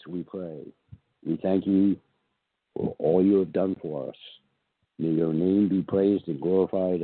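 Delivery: reverent prayer voice, lifting on each plea; solemn spoken prayer. Acted. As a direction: pray it aloud, humble and earnest. Reads prayer of the day.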